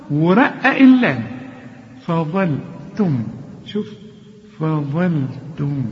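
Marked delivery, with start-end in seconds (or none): 2.0-5.8 فظلتم slowly, light ف, emphatic ظ, light ل; thin fa, heavy za. Shown as a demonstration. Teacher shows students the right reading, slow and exact. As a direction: recite فظلتم with only the ظ thickened. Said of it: "رقق الفاء وفخم الظاء".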